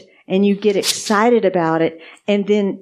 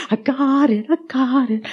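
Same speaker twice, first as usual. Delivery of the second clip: high, elated retold chant; imitated giddy delight, pitched high; gleeful rejoicing; 5 semitones higher than usual. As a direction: go around crowing it in a raised pitch. Retold going around rejoicing.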